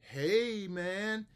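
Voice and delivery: high, bright call of hey man; teacher voice. Shown as a demonstration. Teacher greets student in high voice. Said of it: "if that wasn't clear".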